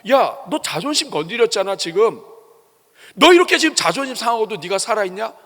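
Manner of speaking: a hint of a taunting devil. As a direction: poke at him like a tempter. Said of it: "마귀가 건드려도". (살짝 흉내 낸 마귀의 비아냥)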